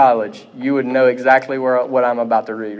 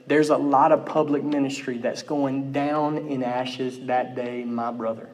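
Leonard Ravenhill; 7 dB quieter than usual. Retold or imitated. Preacher leans up to warn a group, lightly imitated, hushed. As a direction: sink softly into a grave warning, lightly imitating. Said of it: "in this Holy Spirit fire British voice, he leans up".

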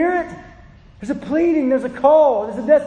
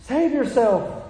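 slow, higher plea; pleading; 4 semitones higher, slower than usual. Retold or imitated. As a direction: beg him to turn back, slowly. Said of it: "So I'm pleading with him".

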